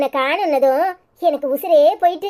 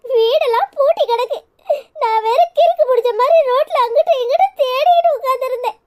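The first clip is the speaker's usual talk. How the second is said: high-pitched, sobbing cry of relief; tearful wailing; 9 semitones higher than usual. Acted. Mother to the child who came back from kidnapping, crying. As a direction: wail it through tears, pitched way up. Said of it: "அழாத, அதான் நான் வந்துட்டல".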